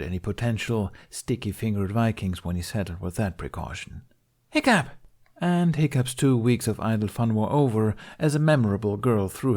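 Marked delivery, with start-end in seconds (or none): 4.5-4.9 sudden high shout right in his ear; shouted name. Acted. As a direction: yell his name to startle him. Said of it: "Hearing his name shouted in his ear".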